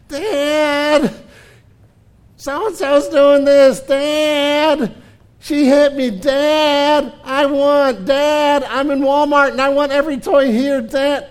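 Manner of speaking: put-on high, loud, whining child pestering dad; whiny kid voice. Preacher mimicking a nagging child to his dad, high whiny voice. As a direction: whine like a kid tugging at a parent's sleeve. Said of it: "that whiny voice out of them".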